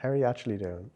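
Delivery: a sincere, pointed "actually"; emphasized ask. Shown as a demonstration. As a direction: stress on actually, asked earnestly. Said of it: "have to emphasize it a little bit more".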